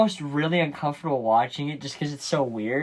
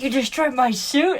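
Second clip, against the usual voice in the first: a hint of outrage, higher pitched; mock pissed; 12 semitones higher, 4 dB louder than usual. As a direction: imitate his indignant high question. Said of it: "he's, like, super pissed".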